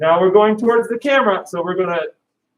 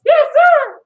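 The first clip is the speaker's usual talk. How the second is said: high, loud model answer; shouted reply; 5 dB louder than usual. Shown as a demonstration. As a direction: bark it out like a cadet. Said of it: "Do that again".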